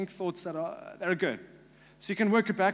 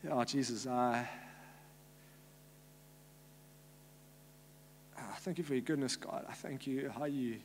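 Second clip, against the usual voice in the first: heartfelt prayer; 3 dB louder than usual. Real, not acted. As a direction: pray aloud, gathering force and rising in pitch. Leads a prayer for people.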